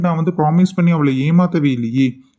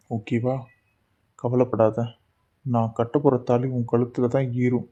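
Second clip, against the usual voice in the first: softer, intimate promise; tender reassurance; 2 semitones lower, 5 dB quieter than usual. Acted. Boss softly promising the crying employee she will be his wife.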